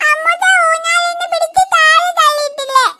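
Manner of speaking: put-on tearful, pleading child demanding punishment; crying child. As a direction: whine through sobs. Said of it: "നീ ആദ്യം കരയണ്ടടാ". (അച്ഛനോട് കരഞ്ഞ് വാശി പിടിക്കുന്ന കുട്ടി)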